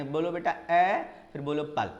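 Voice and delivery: lightly voiced coaxing teacher, ए and पल set apart; teacher to child. Shown as a demonstration. Teacher prompting a small child to say apple in pieces, lightly coaxing. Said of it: "आप ऐसे सिखाएंगे".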